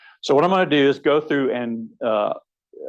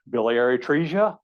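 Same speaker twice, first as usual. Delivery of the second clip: "Biliary atresia?" said as a question, rising at the end; rising question tune. Retold or imitated. Learner timidly offering the answer to the surgeon, rising tune. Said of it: "there's this upward inflection on what they think is the answer".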